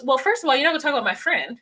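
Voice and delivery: imitating a sassy retort to her man. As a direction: tell him off with attitude, laughing. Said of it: "then Puppy goes".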